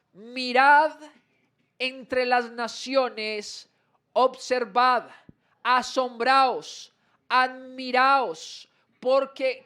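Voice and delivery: slow, stretched reading with a strong opening word; solemn public Bible reading; scripture proclamation. Acted. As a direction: proclaim each command slowly. Reads scripture aloud with force.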